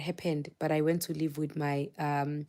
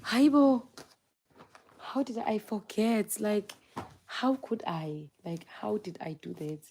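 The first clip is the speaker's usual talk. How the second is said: shocked disbelief; 4 semitones higher, slower than usual. Retold or imitated. To herself on seeing the WhatsApp, shocked disbelief. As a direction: scold yourself for forgetting. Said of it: "I'm like".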